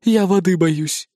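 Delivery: slow, mildly timid cat; a cat cringing from water; shrinking cat. Acted. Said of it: "поёжился котик". (слегка поёжившись, медленно)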